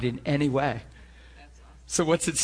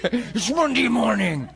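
laughing; 9 semitones higher, 5 dB louder, slower than usual. Real, not acted. Laughing at Monday morning dread.

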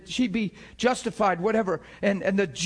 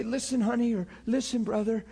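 softer, gentle and patient; 6 dB quieter than usual. Shown as a demonstration. Talking gently to a hurting friend, soft and patient. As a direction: talk someone through it kindly. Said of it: "That's how I try to talk to people".

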